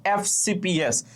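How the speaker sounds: "এফ সি পি এস" said slowly as letter names; slow demo of "এফ সি পি এস"; spelled-out initials. Shown as a demonstration. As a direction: spell out "এফ সি পি এস" at half pace. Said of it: "উচ্চারণটা করতেছো এফ".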